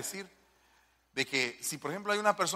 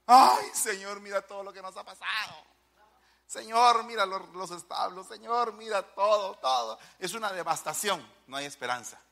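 lament; 3 semitones higher than usual. Acted. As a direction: voice Habakkuk's lament to God. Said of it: "es lo que dice Habacuc". (lamento de Habacuc, clamando al Señor)

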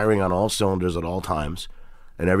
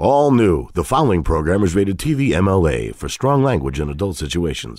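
TV announcer voice; 2 semitones lower than usual. Shown as a demonstration. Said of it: "I do the voiceover for that show".

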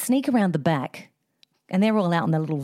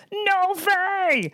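shocked exclamation; 11 semitones higher than usual. Retold or imitated. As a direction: blurt it out in total shock, way up high. Father-in-law realising the trick.

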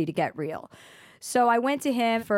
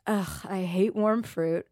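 disgusted grumble; slower than usual. Retold or imitated. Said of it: "I remember thinking".

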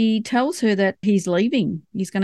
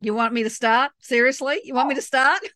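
teasing challenge; 4 semitones higher than usual. Real, not acted. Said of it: "Don't even start me".

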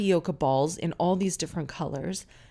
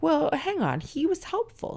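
higher, mocking tone of a doubtful male listener; mock objecting listener; 9 semitones higher than usual. Host imitates male listeners objecting, mock indignant. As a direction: play a skeptical man pushing back, lightly mocked. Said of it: "you'd be like".

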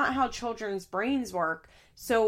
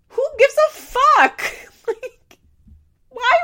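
real high, loud shout with a laugh in it; exasperated outburst; 10 dB louder than usual. Real, not acted. Vlogger reacts to Mandy's question, exasperated shout. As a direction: explode in disbelief, voice shooting up.

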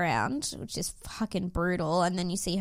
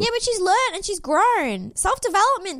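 defensive protest; 10 semitones higher, 4 dB louder than usual. Real, not acted. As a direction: pitch jumps way up, a bit louder, insisting. Defending Ali to co-host.

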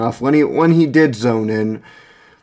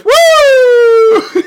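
a very high, loud surfer whoop; surfer woo; 7 dB louder than usual. Retold or imitated. Ex-meth user describing the high with a high, loud surfer woo. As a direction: let out a wild surfer cheer. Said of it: "everybody else goes".

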